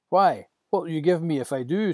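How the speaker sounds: loud mocking retort; a shepherd mocking Moses; taunting shepherd.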